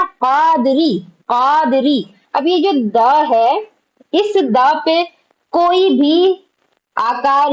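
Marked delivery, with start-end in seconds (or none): 0.0-2.0 कादरी with its long vowels stretched out; drawn-out vowels. Shown as a demonstration. Teacher showing the class long vowels, कादरी drawn out. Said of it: "इसको खींच करके कहा जा रहा है ना".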